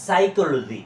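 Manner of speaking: "সাইকোলজি" starting on s, sai-ko-lo-ji; silent p. Shown as a demonstration. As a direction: model "সাইকোলজি" loudly with no p. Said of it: "পি এর উচ্চারণটা উজ্জ্ব থাকবে".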